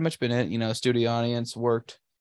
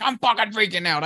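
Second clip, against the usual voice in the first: panicked, much higher; freaking out; 10 semitones higher, 3 dB louder than usual. Retold or imitated. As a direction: blurt it out in a panic. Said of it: "And I'm like".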